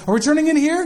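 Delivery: lightly mimicked childish anticipation; eager kids. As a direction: imitate children hoping for a treat. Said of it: "and they're like".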